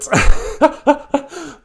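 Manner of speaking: loud high helpless laugh; burst of laughter. Real, not acted. Laughing at her own blooper, a loud high burst of laughter. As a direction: crack up at the tangled word.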